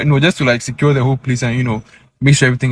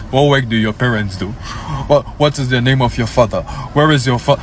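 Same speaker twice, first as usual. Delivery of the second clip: stern dad voice; 4 semitones lower than usual. Retold or imitated. Dad grilling him with questions.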